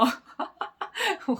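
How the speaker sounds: high scornful burst of laughter; mocking laugh. Real, not acted. Vlogger laughing at men who rage only abroad, scornful laugh. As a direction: laugh it off in disbelief.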